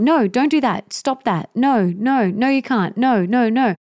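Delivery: lightly hammed-up scolding mom; nagging no-no. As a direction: rattle off the constant no's. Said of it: "always saying".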